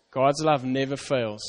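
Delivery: slow, soft "God's love never fails" as a vow. Shown as a demonstration. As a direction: reassure them gently. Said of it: "That's a promise".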